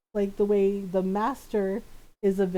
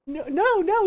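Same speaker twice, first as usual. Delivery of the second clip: higher, louder hasty denial; David Tennant; 7 semitones higher, 7 dB louder than usual. Retold or imitated. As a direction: imitate a flustered denial. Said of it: "he was just like".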